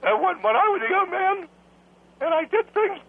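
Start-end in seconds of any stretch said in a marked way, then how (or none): 0.0-1.5 put-on rough, cracked old-man indignation. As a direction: push on through a failing voice. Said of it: "It sounds rough".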